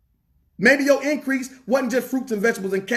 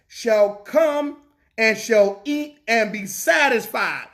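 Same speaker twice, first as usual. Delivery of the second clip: slow, emphatic verse reading; scripture reading; slower than usual. Acted. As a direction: pause after each phrase and draw out the key words. Reads scripture aloud.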